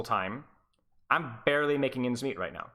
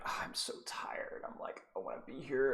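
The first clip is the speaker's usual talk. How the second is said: mock tired whine; 10 dB quieter than usual. Letting loose on tired streams.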